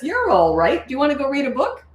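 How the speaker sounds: breezy reassurance. Shown as a demonstration. Parent to child after a tantrum, breezy and upbeat. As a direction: brush it off cheerfully, no fuss. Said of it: "So I just go like this".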